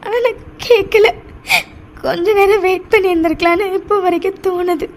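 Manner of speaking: halting, tearful remorse; crying. Acted. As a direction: apologise haltingly through tears. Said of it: "நீ இப்படி அழுறது". (அழுதபடி தடுமாறி மன்னிப்புக் கேட்கும் குரல்)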